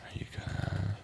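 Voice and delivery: whispering at the computer. Real, not acted. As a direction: breathe it under your breath.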